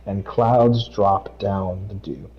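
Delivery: steady devotional read; scripture reading. Acted. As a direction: read it out like a verse at church. Reads Proverbs aloud.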